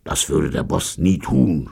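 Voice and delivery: doubtful snort; huffed, uncertain denial. A narrator's reading. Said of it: "schnaubte Steve".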